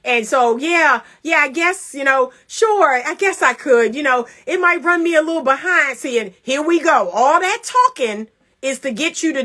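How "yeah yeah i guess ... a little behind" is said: imitated reluctant yes, slightly raised pitch; mock hedging husband; hemming and hawing. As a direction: drag out a grudging, stalling agreement. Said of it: "He be hemming and hawing".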